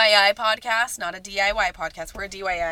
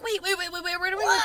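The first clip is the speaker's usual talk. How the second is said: retold panic; 8 semitones higher, 6 dB quieter, faster than usual. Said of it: "I'm like".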